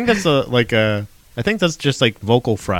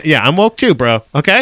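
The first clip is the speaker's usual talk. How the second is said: bro character; 4 semitones higher, 4 dB louder than usual. Pretend. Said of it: "I'm in character".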